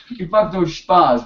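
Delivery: slow, lightly imitated Bavarian accent; mock German-accented English. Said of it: "in, in, in accent".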